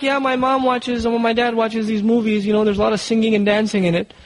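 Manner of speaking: a hint of a kid telling a secret; mild imitation of a child blurting out what goes on at home; child confiding. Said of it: "they talk".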